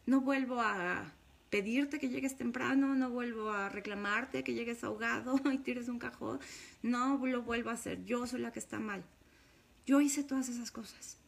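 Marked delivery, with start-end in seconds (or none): 0.1-9.0 retold pleading. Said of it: "Todavía yo lloraba y le decía".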